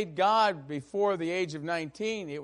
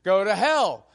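pushy question; 3 semitones higher, 7 dB louder than usual. Retold or imitated. Senator pressing the candidate.

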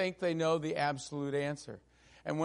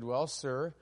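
calm reply; 3 semitones lower, 4 dB quieter than usual. Retold or imitated. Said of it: "he started out very calmly and said".

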